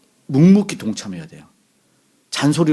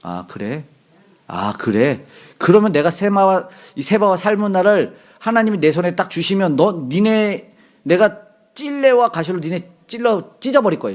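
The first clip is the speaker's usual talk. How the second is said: vengeful curse; 6 semitones higher than usual. Acted. Gideon vowing revenge on those who refused him, acted angry curse. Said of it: "기드온이 저주를 품어요".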